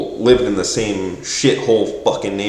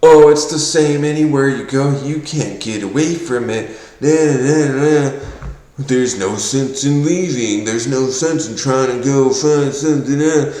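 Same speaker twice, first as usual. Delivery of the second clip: mocking quote; 5 semitones higher than usual. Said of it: "people would tell me".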